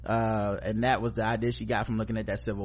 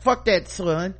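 angry mom; 8 semitones higher than usual. Retold or imitated. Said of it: "then she's like".

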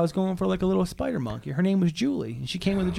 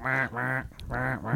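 silly animal noise; 6 semitones lower, 7 dB quieter, slower than usual. Retold or imitated. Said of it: "does not sound like a fucking poor penguin imitation".

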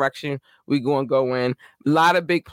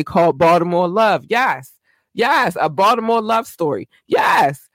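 higher and louder, cheering her own segment title; excited hype; 4 semitones higher, 5 dB louder than usual. Real, not acted. Host hyping the Baltimore Love segment for her city, excited cheer. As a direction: shout it out like announcing a big show.

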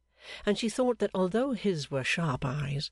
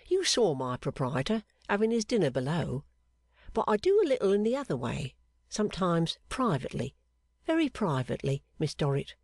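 confiding fortune-teller; 3 semitones higher than usual. Acted. Clerk confiding in the seamstress, secretive. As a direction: let her in on a secret.

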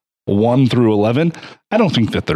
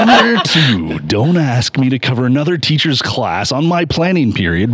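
fighting game announcer; 3 semitones higher than usual. Pretend. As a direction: announce it like a big bout. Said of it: "let me start over".

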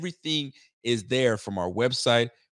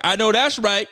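higher, louder quoted exclamation; lightly mimicked emphatic agreement; imitating Laura; 9 semitones higher, 7 dB louder than usual. Host quoting Laura's approval, imitating her emphatically. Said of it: "Laura's like".

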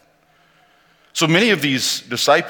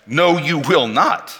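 scolding protest, the question jumps much higher; mock scolding; 6 semitones higher than usual. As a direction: play Peter telling Jesus off in alarm. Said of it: "reads him the riot act".

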